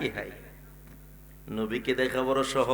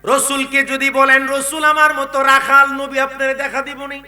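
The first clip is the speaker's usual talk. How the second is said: ringing rhetorical question; intoned preacher's challenge; high-pitched preaching; 12 semitones higher, 11 dB louder than usual. Real, not acted. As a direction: put it to the congregation in a high chant.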